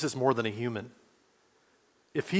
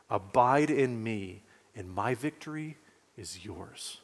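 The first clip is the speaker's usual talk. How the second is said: tender reassurance; 4 semitones lower, 3 dB quieter than usual. Acted. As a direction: speak it gently, as if comforting someone who failed. Preacher voicing Jesus' reassuring words.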